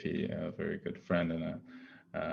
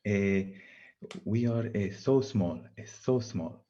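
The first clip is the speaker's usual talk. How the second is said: put-on Brazilian accent; 3 semitones higher, slower than usual. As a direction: imitate a Brazilian colleague's accent, lightly. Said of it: "No, no, no, use his accent".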